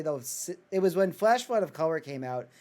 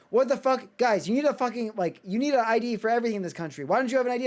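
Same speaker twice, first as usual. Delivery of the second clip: mock yell with raised pitch; retold yelling; 6 semitones higher than usual. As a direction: imitate someone exasperatedly scolding the group. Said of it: "he's yelling at us".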